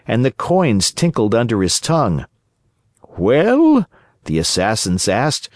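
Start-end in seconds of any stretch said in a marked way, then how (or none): 3.2-3.8 high, loud demanding villain voice; menacing assassin. A narrator's reading. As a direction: press the prisoner for an answer.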